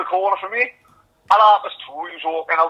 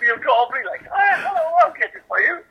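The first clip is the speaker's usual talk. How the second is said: much higher, hammed-up posh phone voice; 10 semitones higher than usual. Mocking Neil's posh phone voice to his mate, high and hammy. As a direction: camp up the put-on telephone manner. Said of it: "put his fucking phone voice back".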